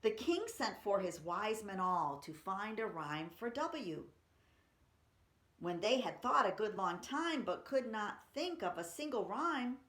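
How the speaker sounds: put-on lively read-aloud for kids; expressive children's poem reading.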